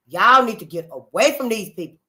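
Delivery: now call it out so all hear; loud warning. Real, not acted. Warning Black America to leave, loud and firm.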